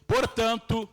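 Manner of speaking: slow, measured Bible reading; solemn reading with weighty pauses; scripture reading. Real, not acted. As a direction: read the verse out deliberately, phrase by phrase. Reads scripture aloud to congregation.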